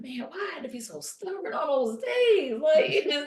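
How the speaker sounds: a high, laughing, half-crying lament; laughing through tears. Retold or imitated. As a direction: laugh and tear up at your own stubbornness. Laughing and crying recalling stubbornness.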